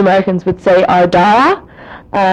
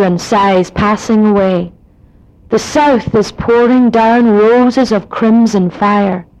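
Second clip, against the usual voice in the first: slow poem in a Donegal accent; slower than usual. Shown as a demonstration. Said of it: "And now I'll read it in a Donegal accent".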